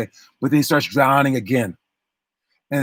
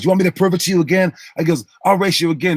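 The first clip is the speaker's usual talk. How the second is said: higher-pitched, quick retold challenge; 4 semitones higher, faster than usual. Brother dares his rival to race again, challenging. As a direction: throw down a mock challenge, pitched up.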